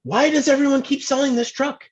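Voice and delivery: very high-pitched exasperated rant; Jeff Wakeman, mock mad. Teammate ranting about the truck everyone sells, mock mad. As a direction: imitate a teammate squealing in comic outrage. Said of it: "He was so mad".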